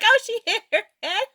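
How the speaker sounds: mock a gossiping bystander; old woman's remark. Old woman with her dog remarking high and fast.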